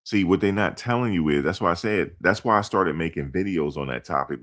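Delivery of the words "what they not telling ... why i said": usual speaking voice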